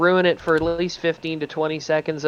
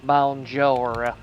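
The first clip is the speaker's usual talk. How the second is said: southern French; 3 semitones lower than usual. Acted. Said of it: "French with a southern accent".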